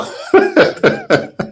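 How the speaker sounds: real high laugh bursting out; burst of laughter. Real, not acted. Guest laughing at a childhood fear question. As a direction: laugh at the question before answering. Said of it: "I don't know why I'm laughing".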